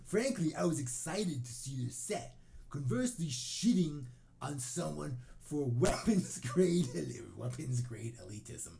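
high, loud mock indignation; all-caps internet rant. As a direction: shout it like an angry post in capitals. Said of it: "I can't read all caps".

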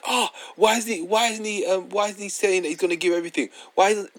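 high whiny mock pundit, well above his own pitch; mocking Souness. Mimicking Souness in a high whiny voice to his co-host. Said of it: "bruv, he was like".

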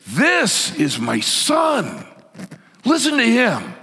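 high, drawn-out commanding shout; God's booming voice. Acted. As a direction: thunder a proclamation down from heaven. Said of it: "the Father's voice comes through and says".

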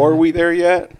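are we there yet shouted high and loud, yet stretched; extra emphasis. Shown as a demonstration. Friends joking about a sequel title, shouted whiny. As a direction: yell it like a whiny kid in the back seat. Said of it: "for extra emphasis?".

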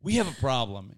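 horror film voice. Retold or imitated. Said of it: "like you were in a horror film".

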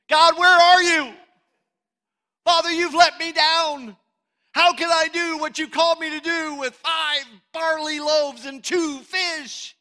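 loud, high, anguished wail to God; hammed-up cry of being let down; mock complaint. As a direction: complain to heaven at full voice, dragging out the ending. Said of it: "That's not what he did".

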